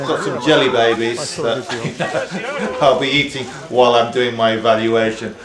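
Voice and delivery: words through a mouthful of sweets; cheeks stuffed full. Real, not acted. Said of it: "I shouldn't talk with my mouth full".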